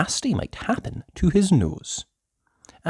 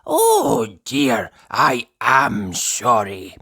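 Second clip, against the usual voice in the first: lightly voiced slow mock apology; a hint of an old man's sorry; old Mister Chips apologizing; 5 dB louder, much slower than usual. Old Mister Chips fake-apologizing, lightly voiced. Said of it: "said old Mister Chips".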